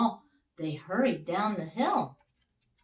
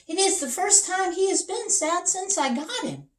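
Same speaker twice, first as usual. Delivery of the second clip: sad king; 14 semitones higher, 5 dB louder than usual. Acted. King voiced in story.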